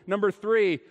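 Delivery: normal talking voice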